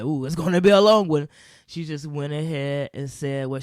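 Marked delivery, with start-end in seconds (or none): 0.0-1.3 mock groan. Friend's joke voiced.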